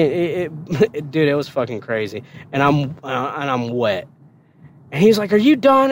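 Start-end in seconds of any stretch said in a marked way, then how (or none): 5.3-5.9 drill sergeant voice. Retold or imitated.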